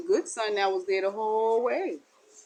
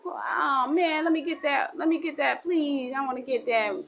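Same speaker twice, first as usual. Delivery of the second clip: put-on higher pleading child voice; begging; 6 semitones higher than usual. Someone begging for a treat, higher and pleading. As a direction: whine and beg for the treat.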